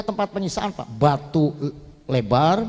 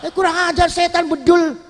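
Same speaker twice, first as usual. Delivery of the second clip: Pharaoh's furious cry, voice much higher; high angry outburst; 9 semitones higher than usual. Acted. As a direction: spit it out in high rage. Pharaoh grows even angrier. (Firaun marah besar, suara melengking tinggi)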